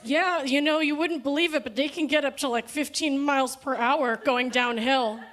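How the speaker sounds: mock eager kid voice; earnest kid. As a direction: play the oblivious coworker proudly stating facts. Kid explaining trolley speeds.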